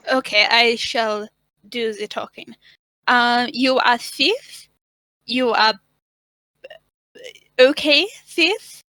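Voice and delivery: halting priestess in a fake German accent; wobbly German-like accent. Priestess offering the thief a job, wobbly German accent. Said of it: "This accent's, I don't know".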